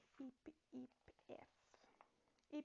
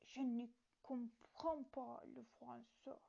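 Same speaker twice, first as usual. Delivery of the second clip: slow, forced German-accented French; halting try at a German accent; attempted German accent; 2 semitones lower, 4 dB louder than usual. Shown as a demonstration. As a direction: push a heavy German accent onto each word, slowly. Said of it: "Forçant".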